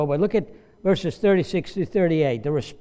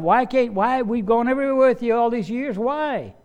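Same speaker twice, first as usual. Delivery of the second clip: puzzled plea; 7 semitones higher than usual. Acted. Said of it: "he's gonna go by himself".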